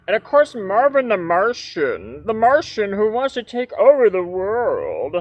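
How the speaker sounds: a hint of nasal alien; lightly voiced cartoon Martian.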